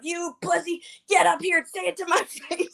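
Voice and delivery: high-pitched imitation of her taunt; mock challenge. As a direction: mimic a woman daring him, laughing at the end. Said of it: "Jersey Girl goes up".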